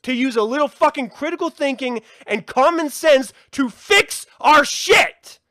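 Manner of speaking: loud, high angry ranting; furious shouting at humanity. Real, not acted. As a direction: vent real fury at everyone. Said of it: "I don't know why I'm getting all heated about this".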